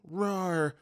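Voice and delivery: sleepy little mock tiger roar; soft gruff roar. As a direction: roar gruffly but keep it small. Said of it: "more like softly yet gruffly going".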